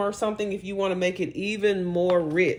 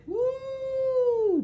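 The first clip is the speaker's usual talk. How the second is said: excited woo. Real, not acted. Excited look at finished dish.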